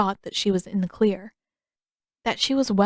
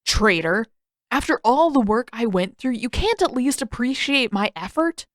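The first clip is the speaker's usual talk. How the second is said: indignant squawk; 4 semitones higher than usual. Acted. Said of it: "With an indignant squawk".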